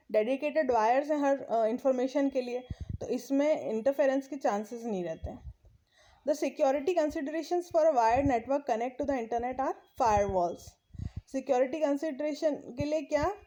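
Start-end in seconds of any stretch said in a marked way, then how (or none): 6.3-10.6 reading the English text aloud, very slowly; slow textbook reading. Acted. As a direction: read each phrase out deliberately for the class. Reads textbook line slowly. (धीमी गति से पाठ पढ़ना)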